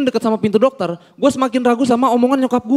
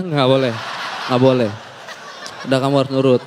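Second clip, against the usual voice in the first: stern mom; 9 semitones lower, 3 dB quieter, faster than usual. Retold or imitated. Mom refusing firmly, low voice.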